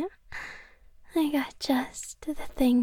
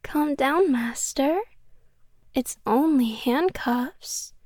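louder, sweetly menacing; yandere menace; 4 dB louder than usual. Acted. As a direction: turn possessive and threatening. Yandere reveals handcuffs, jealous.

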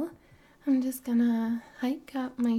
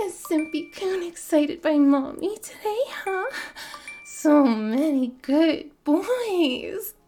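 put-on e-girl voice; 4 semitones higher than usual. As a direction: play up a sugary streamer girl voice. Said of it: "my server wants me to do the e-girl voice".

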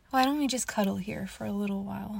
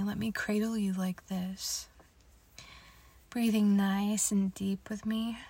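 put-on soothing a child. Cradling and calming the listener.

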